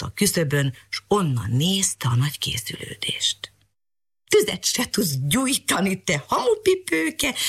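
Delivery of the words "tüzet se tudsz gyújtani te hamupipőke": slow, high mocking cat jeer; cat taunting the girl, up high; cat calling out. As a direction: jeer it at her slowly. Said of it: "kiáltott rá Mariskára".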